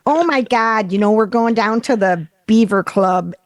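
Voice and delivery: Buffalo accent drifting into Minnesota; nasal upstate New York accent, Minnesota-ish. Shown as a demonstration. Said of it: "that sounds too much like Minnesota".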